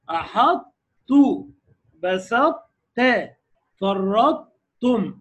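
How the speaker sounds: أحطوا بسطت فرطتم with ṭa trace before ta; very slow recitation. Shown as a demonstration. Teacher reciting examples loudly for class, very slow. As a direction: stretch each word, heavy ṭa then light ta. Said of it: "بالصفة بتاعتها مرققة".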